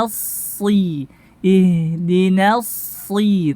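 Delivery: slow, drawn-out tajwid recitation; measured Quran drill with held vowels; recitation practice. Shown as a demonstration. Teacher leading practice, slow measured recitation. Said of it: "Kita masuk kepada praktek".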